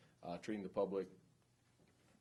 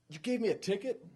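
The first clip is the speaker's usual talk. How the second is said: high, loud disbelieving cry; shocked driver; 13 semitones higher, 9 dB louder than usual. Retold or imitated. Lady driver to the trooper on getting a ticket, shocked. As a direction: hit it like betrayal.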